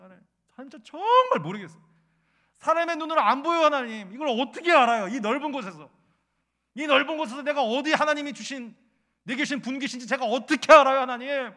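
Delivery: high, loud pleading cry to God; retold crying prayer. Pastor retelling his tearful prayer in the car, loud anguished pleading. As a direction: relive the sobbing prayer, voice strained high. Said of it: "엉엉 울었어요".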